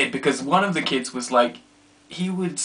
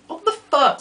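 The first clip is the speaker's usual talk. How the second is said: irritated outburst; 14 semitones higher, 5 dB louder than usual. Retold or imitated. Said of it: "I'm like".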